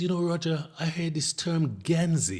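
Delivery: put-on strong Irish accent. Quoting an Irish friend met in Jamaica: imitating a strong Irish accent. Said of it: "he's got the wicked Irish accent".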